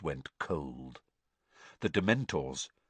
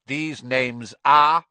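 louder and slow, cutting demand; stern magistrate speaking sharply; 6 semitones higher, 9 dB louder, slower than usual. A narrator's reading. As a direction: snap the question at him. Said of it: "said Mister Crouch sharply".

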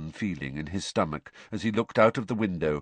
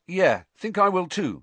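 eager and instant; quick reply; 11 semitones higher, 6 dB louder than usual. Acted. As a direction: jump in at once. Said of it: "said Ron at once".

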